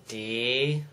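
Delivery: staccato. Shown as a demonstration. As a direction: say D- then P, apart. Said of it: "Let's break that word down too".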